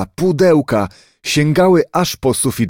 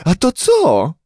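high, alarmed shout on waking; sharp startled cry; 6 semitones higher, slower than usual. A narrator's reading. Woken neighbour lady in the train shrieks in alarm. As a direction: cry out in sudden shock. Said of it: "Obudził go ostry krzyk sąsiadki".

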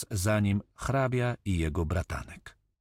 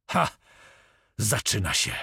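mocking shout; 3 dB louder than usual. A narrator's reading. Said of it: "krzyknął drwiąco".

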